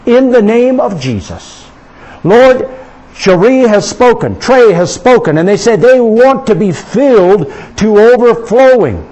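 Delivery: rising preacher's prayer, building force; fervent prayer. Real, not acted. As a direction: pray over them with growing fervour. Pastor leads prayer aloud.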